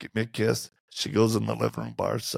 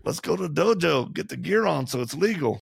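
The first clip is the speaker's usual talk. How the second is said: mock eager challenge; 6 semitones higher than usual. His joking reply.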